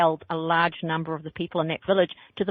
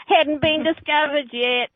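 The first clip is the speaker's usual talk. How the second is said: laughing aside; 8 semitones higher, 4 dB louder, slower than usual. Real, not acted.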